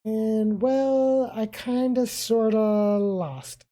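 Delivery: stall, then blurt the confession slowly; sheepish Rio. Acted.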